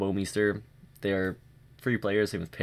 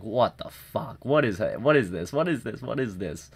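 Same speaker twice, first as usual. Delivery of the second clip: retold frustration. Gamer recalling his live reaction to endless saves, frustrated. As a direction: replay your baffled frustration in a held-back voice. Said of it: "I was just getting so frustrated".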